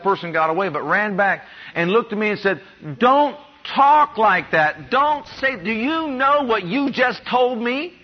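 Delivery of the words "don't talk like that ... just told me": higher, urgent reproach, slowed on the first words; agitated scolding. Retold or imitated. Retelling how a man ran back to rebuke him, mock-agitated scold. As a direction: stop him cold with a raised scold.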